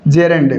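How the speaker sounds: "gerund" said as JEH-rund, e first; correct gerund pronunciation. Shown as a demonstration. Teacher correcting students' pronunciation, gerund said properly as JEH-rund. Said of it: "इसका correct pronunciation है gerund".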